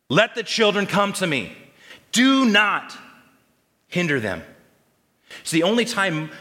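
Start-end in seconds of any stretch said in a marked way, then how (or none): 0.1-4.4 a raised, indignant rebuke; loud public rebuke. Acted. Jesus publicly rebuking the disciples, raised indignant voice. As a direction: say it for the whole crowd to hear. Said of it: "He says it loudly for all to hear".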